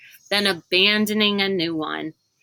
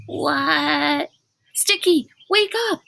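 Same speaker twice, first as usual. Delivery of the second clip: urgent wake-up call; 8 semitones higher, slower than usual. A narrator's reading. Rainey shaking Sticky awake before dawn, urgent higher call. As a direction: rouse a sleeping friend, urgently.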